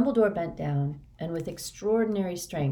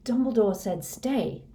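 higher, thick-voiced protest; speaking thickly; 6 semitones higher than usual. A narrator's reading. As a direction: protest groggily as a sick, dazed boy. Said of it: "said Harry thickly".

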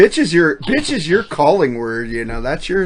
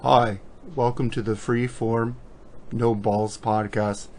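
boring host; 5 semitones lower than usual. Pretend. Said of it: "people don't wanna hear this podcast".

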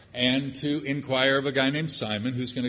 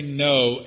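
"no" hit louder, set apart; stress on no; 5 dB louder than usual. Shown as a demonstration. Preacher warns the congregation never to say "no". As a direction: lean on "no" as a warning. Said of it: "Don't say".

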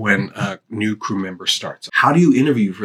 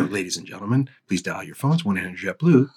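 announcer intro; 2 semitones lower, 3 dB quieter than usual. Shown as a demonstration. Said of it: "just to hear what that".

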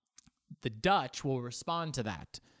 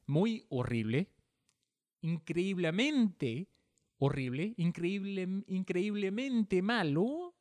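Argentine accent; 5 semitones higher than usual. Shown as a demonstration. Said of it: "that Argentine accent came out".

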